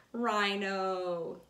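rhino with a long open O, like the letter's name; long O sound. Shown as a demonstration. Teacher showing kids the long O in rhino. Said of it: "at the end of the word rhino".

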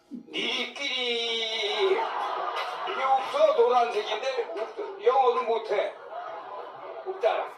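drawn-out, high Jeolla dialect grandma shout. Retold or imitated. Grandma taunting the American in Jeolla dialect, drawn-out shout. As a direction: stretch the Jeolla dialect color word like a cheeky grandma. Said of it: "할머니가 색깔 얘기하는데".

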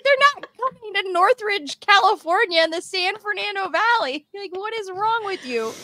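high mock exasperated father; exasperated dad. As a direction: scold like a fed-up dad. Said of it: "And he's like".

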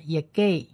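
"Yegay" with the middle h left silent; skipped h. Shown as a demonstration. Teacher shows learners the skipped letter, "Yegay" with no h. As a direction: glide from Ye straight to gay in "Yegay". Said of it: "这个发赫好像就跳过去了".

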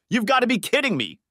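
high-pitched disbelief; incredulous. A narrator's reading. Andorra scoffs at worry over her reputation, incredulous. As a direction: exclaim it high, as if it's absurd.

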